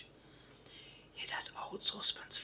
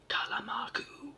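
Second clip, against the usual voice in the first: slow, pronounced nonsense words in a louder whisper; solemn gibberish; 10 dB louder, slower than usual. Acted. Hop pretending to be a foreigner to the station master, solemnly. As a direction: intone the gibberish gravely, as if it were a real language. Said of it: "answered Hop solemnly".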